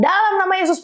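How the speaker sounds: mildly re-enacted high cry; retold prayer shout. Wife praying among other patients, mild retold shout. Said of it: "Teriak-teriak".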